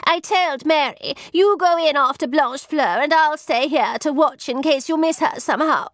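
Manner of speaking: high, insistent account; snappish lady's maid. Acted. Satin defending herself to the visitor, snappish. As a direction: report it testily, pitched high. Satin recounts her order.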